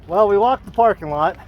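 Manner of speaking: breathless after walking the lot; out of breath. Real, not acted. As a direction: talk while catching your breath. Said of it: "I'm out of breath".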